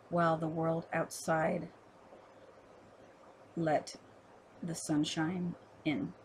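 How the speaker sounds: measured poem recital with pauses between phrases; poetry reading. Acted. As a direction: read it as verse, line by line.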